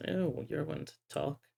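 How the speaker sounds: muttering under his breath. Voicing a card player's quiet aside about his partner: Mister Moy muttering under his breath. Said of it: "says under his breath".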